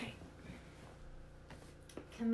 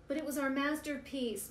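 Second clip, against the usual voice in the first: moaning; 5 semitones higher than usual. Acted. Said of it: "moaned Turtle".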